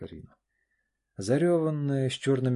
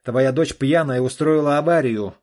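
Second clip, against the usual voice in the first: громко и зло, выше обычного; брось жене упрёк в ярости; гневно; 5 semitones higher, 13 dB louder than usual. Acted. Олег в гневе на жену. (муж упрекает жену, громко и зло)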